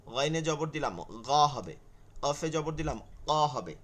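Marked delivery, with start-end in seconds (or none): 1.0-1.3 "গ" as a thick, throaty Arabic gh; heavy ghain. Shown as a demonstration. Teacher showing heavy letters with vowels, "গ" thick and throaty. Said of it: "জবর জের পেশ দিলেও মোটা". 3.3-3.3 "ক" as a deep-throat Arabic q; heavy qaf. Shown as a demonstration. Teacher showing heavy letters with vowels, "ক" as thick back q. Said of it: "জবর জের পেশ দিলেও মোটা".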